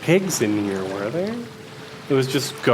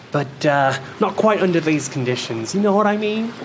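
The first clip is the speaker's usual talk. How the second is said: put-on much higher, doting baby talk to a bird; cooing to a pet; 6 semitones higher than usual. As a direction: gush over the bird like a beloved pet. Haslin cooing to his seagull.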